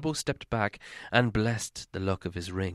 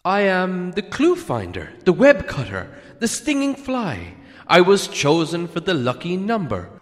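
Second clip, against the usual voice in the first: much higher, stammering hobbit voice; frightened hobbit flattering the dragon, high and nervous; 8 semitones higher, 7 dB louder than usual. A narrator's reading. Bilbo voice.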